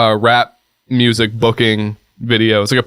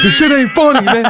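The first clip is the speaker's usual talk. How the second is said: much higher, mock-whiny complaint; whiny friend; 14 semitones higher than usual. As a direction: whine it like a sulking buddy. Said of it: "He's like".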